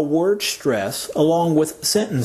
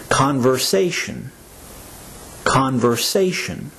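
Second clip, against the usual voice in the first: Conversation, accent on the "sa" syllable; accented long A. Shown as a demonstration. Teacher has learners listen to Conversation, accenting the long A. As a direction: say Conversation clearly, stressing the long A. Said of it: "hear the vowel that is accented".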